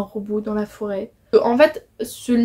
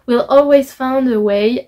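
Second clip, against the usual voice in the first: put-on English accent; 5 dB louder, slower than usual. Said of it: "vous avez vu mon accent anglais magnifique".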